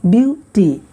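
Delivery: "ब्यूटी" in two beats, ब्यू then टी; split syllables. Shown as a demonstration. Teacher showing a word's two parts, "ब्यूटी" split in two. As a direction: break "ब्यूटी" before टी. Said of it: "दो भागों में split हुआ".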